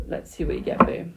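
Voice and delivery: breathy whisper while dealing; whispered aside. Real, not acted. Reader dealing the cards for a viewer, whispered. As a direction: whisper it as you deal.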